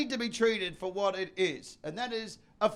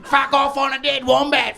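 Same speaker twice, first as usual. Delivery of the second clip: loud hammed-up Aussie; broad Australian accent; 3 semitones higher, 6 dB louder than usual. Comic parodying himself with wombat slang, broad Australian shout. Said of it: "My accent gets fucking broader".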